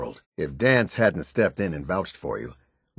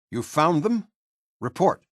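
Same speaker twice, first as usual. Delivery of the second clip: high rising disbelief, then demand; startled question; 8 semitones higher than usual. Acted. Officer hears the missing team was found, incredulous. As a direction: ask it incredulously, pitch jumping up.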